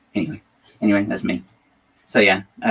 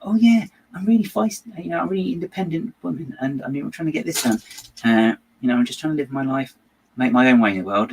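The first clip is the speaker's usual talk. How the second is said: mock feisty Belinda; 5 semitones higher than usual. Reviewer mocking Belinda's feisty self-image, higher, hammed-up voice. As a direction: sell a mocking version of an independent-woman speech. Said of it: "she was like".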